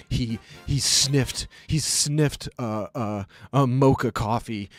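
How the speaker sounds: slow, halting mock anguish; mock-distraught poster. Imitating online dog owner overdramatizing, slow mock distress. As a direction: drag it out like a tragic testimony.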